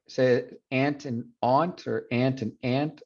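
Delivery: "aunt" said slowly as "ahnt" and as "ant"; two ways to say "aunt"; aunt contrast. Shown as a demonstration. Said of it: "who pronounces".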